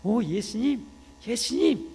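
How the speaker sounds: put-on high-pitched child calling to Jesus; acted child, voice lifted high; schoolchild. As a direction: cry out like a young pupil who has just understood. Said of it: "초등학교 얘기도".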